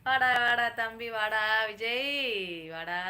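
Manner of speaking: loud, drawn-out calling out; loud welcome. Real, not acted. Greeting a younger brother joining in, loud calling welcome. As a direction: holler a welcome to a little brother.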